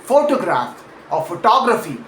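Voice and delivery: PHOtograph, then phoTOGraphy; Photograph or photography, contrasted by stressed syllable; shifting stress. Shown as a demonstration. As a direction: move the punch from PHO in Photograph to TOG in photography. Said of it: "stress shifts because of that".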